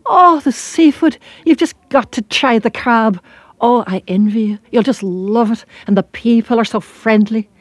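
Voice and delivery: lilting Irish gush of love and nostalgia; rhapsodizing Irish voice. Acted. Homesick-sounding girl praises Ireland to traveller, rhapsodizing Irish voice. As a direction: rave fondly in an Irish accent. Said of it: "she rhapsodized about Ireland with such love".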